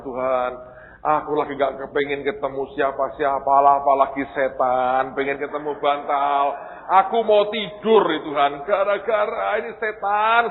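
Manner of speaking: loud, high-pitched sleepy grumble to God; exasperated complaint. Retold or imitated. Mengeluh kantuk kepada Tuhan. (keluhan kesal yang dilebih-lebihkan, makin tinggi)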